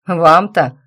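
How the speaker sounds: sniffy cat's scoff; snooty bored cat. Acted. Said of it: "фыркнул кот".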